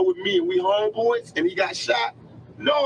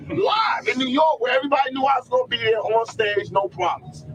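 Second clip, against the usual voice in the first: raised, emphatic shouting about New York; heated shout; 3 semitones higher than usual. Real, not acted. Rapper to interviewer, defending his New York shows, shouting. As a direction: shout it out defiantly, like proving a point.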